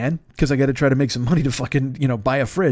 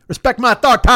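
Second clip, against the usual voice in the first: mock authority; 10 semitones higher, 5 dB louder, faster than usual. Demanding respect as driver.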